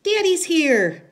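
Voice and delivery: put-on high, loud little-girl squeal; child's loud, slow cry of announcement; excited scream. A narrator's reading. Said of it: "Bea screamed".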